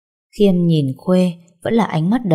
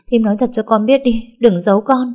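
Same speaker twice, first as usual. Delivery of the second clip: urgent pleading; 5 semitones higher than usual. Acted. Khuê begs the aunt at the gate for news of her son, urgent and pleading. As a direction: beg her to tell the truth, pressing hard. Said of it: "Giọng Khuê gấp gáp".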